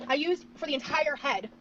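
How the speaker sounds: words pushed out on a slow burp. Real, not acted. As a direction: talk through a long burp. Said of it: "is that a burp?".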